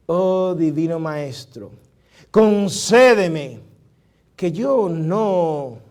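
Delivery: Oh Divino Maestro drawn out slowly, each phrase spaced; slow reverent recitation. Acted. Pastor recites his favourite translation to the congregation, slow and reverent. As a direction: savour every line like a memorized prayer.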